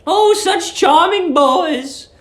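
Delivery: put-on high, sweet old landlady. A narrator's reading. Old landlady cooing at young guest Billy, high and sweet. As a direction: coo it like a doting landlady.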